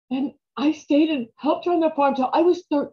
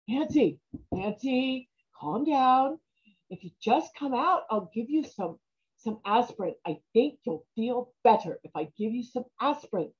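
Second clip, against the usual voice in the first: softer, coaxing mother; soothing; 6 dB quieter than usual. Acted. Mother softly coaxing her upset daughter through the door. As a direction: gently talk her out of the bathroom.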